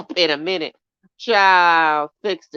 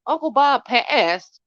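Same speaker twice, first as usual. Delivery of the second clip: high, slow disbelieving gasp of a question; shocked question; 6 semitones higher, 4 dB louder, slower than usual. Retold or imitated. Retelling to her chat how she reacted to her sister on the phone, shocked. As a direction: retell her stunned reply to the news. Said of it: "Girl, I said".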